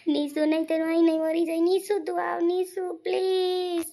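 loud, urgent calling out; desperate plea. Acted. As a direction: call after her, begging desperately. Desperate calling after her, threatening death.

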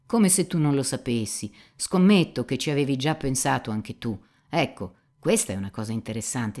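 lightly voiced cynic pressing his friend; mildly insistent, knowing interrogator; Rakitin incalzante. Dialogo letto, Rakitin incalza. (cinico che incalza, appena caratterizzato)

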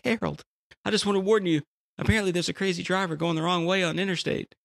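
put-on high old-lady voice, urgent warning; worried old lady. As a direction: squeak it out like a fussing old wife. Wife warns husband in joke.

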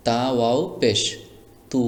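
তু with a steady stretched oo; elongated vowel. Shown as a demonstration. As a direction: spell it out, then hold তু long. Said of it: "আমি কিভাবে বানান করছি".

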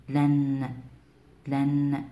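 "لن" with a held n at the end; audible final nun. Shown as a demonstration. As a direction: let the n of "لن" ring. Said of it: "نسمع آخر النطق نون".

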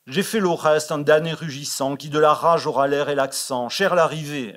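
a touch of theatrical bombast; declaiming Gluck. Acted. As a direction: proclaim it like a bragging Gluck. Reading Gluck's ranting verse speech.

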